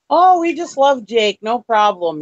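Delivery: slow, sweet mock neighbor, pitch lifted; gushing neighbor. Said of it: "And they were like".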